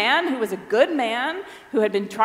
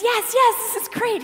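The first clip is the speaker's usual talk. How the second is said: eager burst, much higher in pitch; excited; 11 semitones higher than usual. Retold or imitated. Rich man eagerly answering Jesus, excited and high. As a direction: gush with sudden delight. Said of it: "He's getting very excited".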